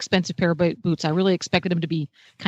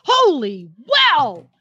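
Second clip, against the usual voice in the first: drawn-out, higher sidekick exclamation; Robin; 5 semitones higher, 3 dB louder, much slower than usual. Acted. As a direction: stretch it into a comic-book cry of amazement. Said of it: "I feel like Robin every time".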